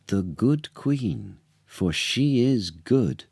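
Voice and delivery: a touch of bold lady-in-waiting, slow; lightly voiced Paulina, standing firm, slow; brave Paulina. Paulina bravely presents the baby to the king, lightly voiced. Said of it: "said brave Paulina".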